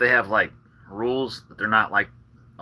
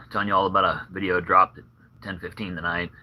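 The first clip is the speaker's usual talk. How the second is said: out of breath; 3 semitones lower than usual. Real, not acted. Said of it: "I don't know why I'm out of breath".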